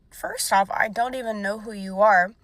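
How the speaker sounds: mild mock outrage; indignant telling-off. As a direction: put him in his place. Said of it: "I was like".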